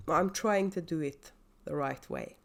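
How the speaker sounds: words around a sip of drink; while sipping a drink. Real, not acted. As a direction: talk just before taking a drink. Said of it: "Awfully sorry for the drinking breaks".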